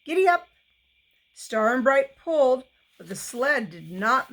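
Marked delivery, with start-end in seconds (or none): 0.1-0.5 high, loud call to the oxen; yelling at the steers to pull; shouted command. A narrator's reading. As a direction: crack out the command to the team. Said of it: "cracked the whip and shouted".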